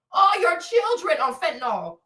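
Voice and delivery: ordinary talk, nothing marked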